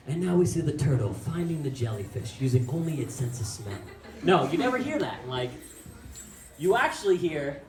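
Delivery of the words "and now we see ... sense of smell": lightly voiced nature documentary narrator; a hint of a hushed wildlife narrator. Mocking documentaries, a light narrator voice. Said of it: "those documentaries and they're like".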